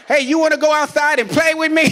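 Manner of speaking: mock childish excitement; eager kid. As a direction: kid perking up to play. Kid cheerfully inviting paramedic.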